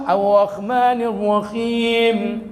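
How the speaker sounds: put-on slow Banjar-accented Quran line, weak R; Banjar-style R. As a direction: chant it like a Banjar speaker, R barely rolled. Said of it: "kalau ngomong R ... kurang cetok".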